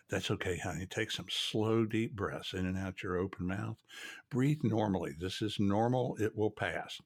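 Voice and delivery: calm a frightened patient gently; calm reassuring. Shown as a demonstration. Tech soothing a patient on the table, calm and soft. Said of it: "You just say it really calm".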